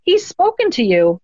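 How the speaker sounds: high, stunned gasp of a reply; shocked. Retold or imitated. Psychic tells the widow her husband spoke to her, shocked and high. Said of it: "had this shocked look on her face".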